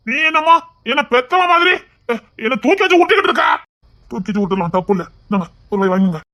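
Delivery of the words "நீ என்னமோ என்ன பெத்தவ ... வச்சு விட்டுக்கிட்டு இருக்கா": indignant protest. Acted. Drunk man protests being babied.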